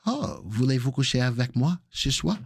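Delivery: attempted French accent on a memorized line; retold French attempt. Employee showing off French to the boss, amateur French accent. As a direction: try out your only French. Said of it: "Here's the only French I know".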